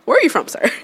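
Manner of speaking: lightly put-on polite suburbanite; mock-courteous suburban questioning. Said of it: "put my whole suburban voice on".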